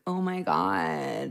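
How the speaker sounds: put-on slow, drawn-out Valley girl "Oh my God"; LA American accent. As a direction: drawl it like an LA girl, low and lazy. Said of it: "the American accent one thinks of with L A".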